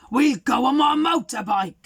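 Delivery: lightly voiced eager boy; a touch of a keen young lad. The boy offering Father Christmas a ride, eager.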